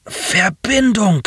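high, slow, barely modulated machine voice; flat robotic groan. A narrator's reading. Injured alien pilot begs Nasir, flat high groan. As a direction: groan it out evenly, like a damaged machine. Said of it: "stöhnte der Europäer mit kaum modulierter Stimme".

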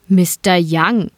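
slow, drawn-out reproach; slow mock-patient rebuke; scolding. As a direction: chide him slowly, like a disappointed teacher. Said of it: "tadelte ihn Theo".

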